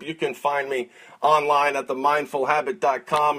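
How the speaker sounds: ordinary talk, nothing marked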